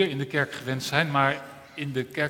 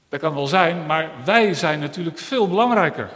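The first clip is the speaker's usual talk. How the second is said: hands character; 9 dB louder than usual. Acted. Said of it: "zeiden de handen".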